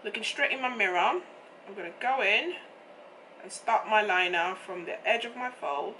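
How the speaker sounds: hoarse, croaky throat; rough morning voice; frog voice. Real, not acted. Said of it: "what's going on with my voice this morning".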